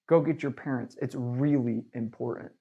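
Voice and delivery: steady and authoritative, no asking; a rep ordering the kid to fetch parents, firm; firm, commanding. Shown as a demonstration. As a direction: tell the kid like a cop at the door. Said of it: "you would say it like that".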